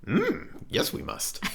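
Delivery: high croaky hum, then a hushed creature voice; Yoda. Acted. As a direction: start high, then drop to a near whisper. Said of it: "That's my best Yoda impression".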